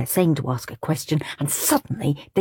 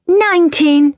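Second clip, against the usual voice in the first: higher, louder one-upping; competitive; 11 semitones higher, 6 dB louder than usual. Acted. Claire outbidding Brian, louder. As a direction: snap it back to win.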